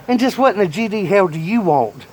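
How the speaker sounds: loud, high gruff snap at the door; gruff grandpa. Retold or imitated. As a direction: growl at the kid at the door.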